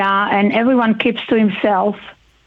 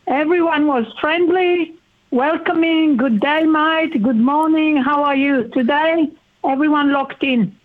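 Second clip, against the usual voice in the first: upset, pitch raised; wistful and upset, voice held higher; a bit emotional; 4 semitones higher than usual. Real, not acted. Interviewee recalls a friendlier Australia, a bit emotional. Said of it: "I'm getting a bit emotional".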